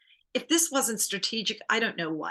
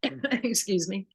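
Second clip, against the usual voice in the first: coughing, slowed by a swallow gone wrong; choking on a drink; much slower than usual. Real, not acted. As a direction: catch your breath after choking. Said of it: "I'm ca-, choking on that one".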